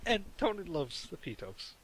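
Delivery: a hint of a TV weatherman; recalling the walkie-talkie prank, lightly voiced weatherman; news weathercast voice. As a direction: read it lightly like a forecast. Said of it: "like the news weathercast".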